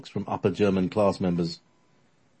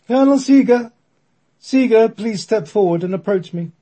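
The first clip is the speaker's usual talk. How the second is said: high, loud bellow from beyond; bellowing spirit voice; 9 dB louder than usual. Acted. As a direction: boom out the colonel's name. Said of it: "a voice that could not have been hers bellows out".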